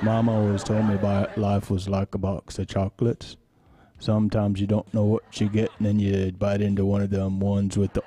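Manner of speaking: earnest Southern simpleton impression; Forrest Gump. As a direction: play a simple Alabama man, drawling. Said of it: "Forrest Gump kinda talks like this".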